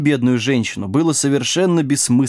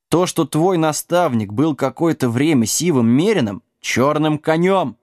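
mildly indignant pony correcting someone; indignant snort; 4 semitones higher than usual. Acted. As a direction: correct them with wounded dignity. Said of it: "возмущённо фыркнул пони".

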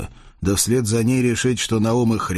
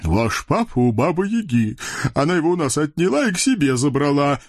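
fast, high devil gabble; quick confirmation; 6 semitones higher than usual. Acted. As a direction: rush to confirm. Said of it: "быстренько подтвердил Хряк". (быстро подтвердил)

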